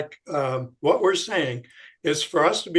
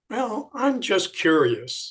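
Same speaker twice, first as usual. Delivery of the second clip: curious; 4 semitones higher, slower than usual. Shown as a demonstration. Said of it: "start a lot of conversations with".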